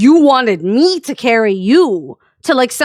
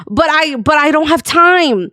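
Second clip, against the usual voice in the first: imitated whiny excuse with swooping pitch; mock whining; 3 semitones higher than usual. Friend makes excuses to the streamer, mock whiny. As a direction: plead helplessly, making fun of him.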